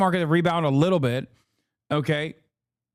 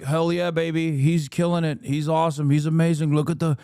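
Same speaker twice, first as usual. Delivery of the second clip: mock fanboy cheer; 2 semitones lower than usual. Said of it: "his dick riders are just like".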